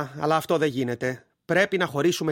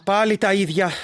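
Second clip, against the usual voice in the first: ordinary talk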